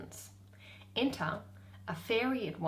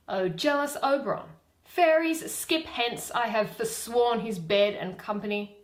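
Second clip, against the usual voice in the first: Titania; 4 semitones higher, 7 dB louder than usual. Acted. Reading Titania's lines.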